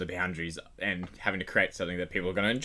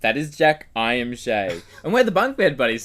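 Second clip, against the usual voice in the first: show introduction; 3 semitones higher, 5 dB louder than usual. Pretend. Belated show introduction as title card.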